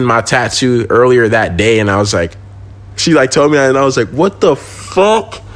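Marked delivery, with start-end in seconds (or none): 4.1-5.4 stunned disbelief. Retold or imitated. Hears she saw his tattoo.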